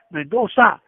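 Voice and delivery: mild imitation of a holler; retold holler. Joe calls the lieutenant after quieting the cops, mock holler. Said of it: "he hollered loud".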